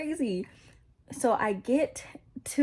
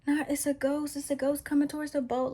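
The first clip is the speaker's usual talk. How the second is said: higher-pitched mock alarm; scared disciples; 5 semitones higher than usual. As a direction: act out mildly panicked onlookers spotting a ghost. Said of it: "Like, they're scared".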